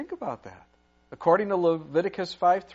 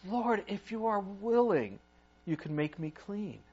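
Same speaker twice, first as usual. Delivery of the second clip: desperate plea; 4 dB quieter than usual. Acted. The leper begs Jesus.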